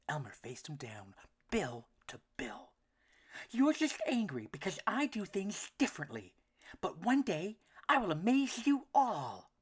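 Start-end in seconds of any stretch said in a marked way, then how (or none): 3.5-9.5 a small worried duck, pitched up; duckling voice. A narrator's reading. Elmer faces bully.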